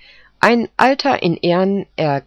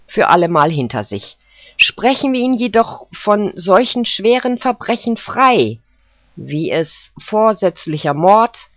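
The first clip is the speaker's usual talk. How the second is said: solemn jury foreman; 5 semitones higher, 3 dB louder than usual. Acted. Jury foreman delivers verdict.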